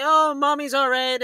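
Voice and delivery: lightly voiced dismissive grandmother; imitated grandma's reassurance. Imitating grandma reassuring the kid, light mock reassurance. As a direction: brush it off like grandma, drawing out the oh. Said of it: "and the grandma's like".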